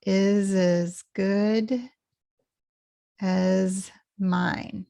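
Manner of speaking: slow, IS AS joined, GOOD drawn out; linked IS AS. Shown as a demonstration. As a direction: link IS AS, then stretch GOOD. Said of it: "linked together".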